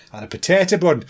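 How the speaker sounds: quick mock Irish accent on "potato bun"; lightly put-on Irish lilt for the punchline. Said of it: "do a potato thing in an Irish accent".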